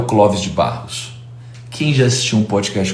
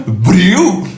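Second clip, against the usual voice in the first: high, punched theatrical challenge; hammed-up impression of an impassioned teacher; Clóvis de Barros; 7 semitones higher, 3 dB louder than usual. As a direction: throw out the word with mock passion. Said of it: "Ele fala".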